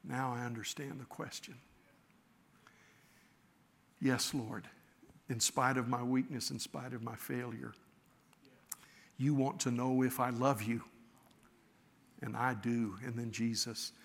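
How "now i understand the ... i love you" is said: softer, quiet humble answer; sincere understanding. Shown as a demonstration. Preacher voicing Peter answering Jesus humbly, softly. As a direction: say it gently, with full heart. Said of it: "it was Peter saying".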